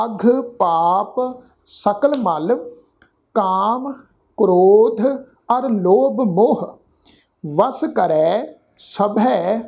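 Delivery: slow, measured Gurbani recitation; scripture recitation. Shown as a demonstration. Teacher recites scripture for the congregation to follow, slow and measured. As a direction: draw out each word, pausing between phrases.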